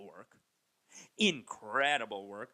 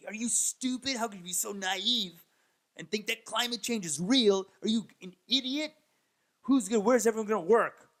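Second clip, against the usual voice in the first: much higher, louder mocking voice of a ranting bro; mock yelling bros; 7 semitones higher, 4 dB louder than usual. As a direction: parody their outrage, high and loud. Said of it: "two of them are just yelling at me".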